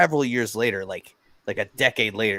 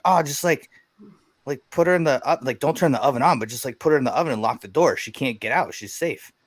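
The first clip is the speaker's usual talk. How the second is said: higher, breezy mock-casual buddy; casual buddy advice; 4 semitones higher than usual. Buddy breezily telling a new dad, lightly voiced. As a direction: play the buddy as if it's obvious.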